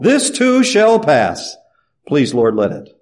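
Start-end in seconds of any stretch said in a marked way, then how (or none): 0.0-1.6 slow emphasis. Acted. Repeats phrase, drawn out.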